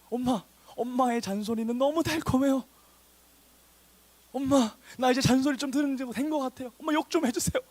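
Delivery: high-pitched, hammed-up sweet pleading; mock adoring child. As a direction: play an absurdly eager kid begging mom.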